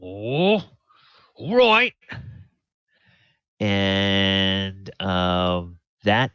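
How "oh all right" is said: high, loud, meek agreement; meek minion. Acted. Danish giving in to Glassstaff, high and meek. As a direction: cave in to the boss. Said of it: "Danish is like".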